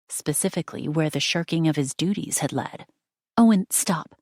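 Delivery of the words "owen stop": urgent call. A narrator's reading. Celia urgently stops Owen.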